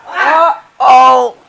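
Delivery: sudden alarmed uh-oh; loud uh-oh. Real, not acted. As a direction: call it out in alarm. Dog runs near trucks.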